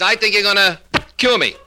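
high, halting line with a block; stuttering patient. Acted. Patient praises his psychiatrist, with blocked stutter. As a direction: stick before "cure", then pop it out. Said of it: "a little impediment in his speech".

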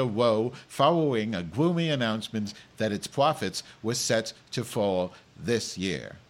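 news anchor with a comic speech impediment; lightly hammed-up newsreader; mock news read. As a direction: read the headlines with r and l softened to w. Reads news as Madge.

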